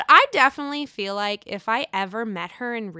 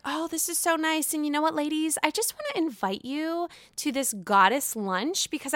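mock serene Mia; 5 semitones higher, 4 dB quieter than usual. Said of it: "she's like".

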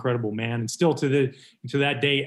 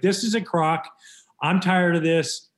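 fed-up retort; 4 semitones higher, slower than usual. Retold or imitated. Player's angry retort, retold.

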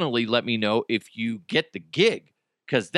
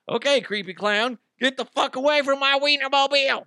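shrill mock scolding; 11 semitones higher than usual. Shooing off a clown.

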